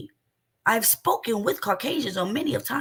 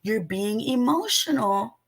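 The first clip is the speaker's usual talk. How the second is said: mocking the co-host. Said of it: "even the man said".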